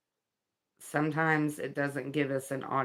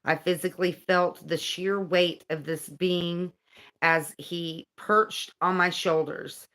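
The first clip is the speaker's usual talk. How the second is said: earnest, measured narration; guidebook reading; 3 semitones higher, 3 dB louder than usual. Acted. Reading about an angel's visit to viewers, earnest read-aloud. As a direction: read it out with deliberate phrasing.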